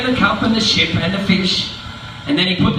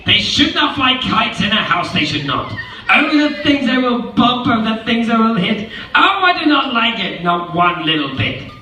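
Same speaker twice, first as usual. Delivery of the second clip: high, fretful worrying; fussy fish voice; 5 semitones higher than usual. Acted. Fish in the pot fretting about the kites, fussy. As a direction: fret over every bump. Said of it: "said the fish in the pot".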